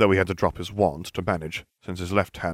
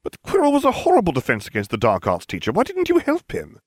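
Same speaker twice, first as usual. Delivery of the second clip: high, louder protest; indignant disbelief; 12 semitones higher, 5 dB louder than usual. Acted. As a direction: voice leaping up into an accusing question.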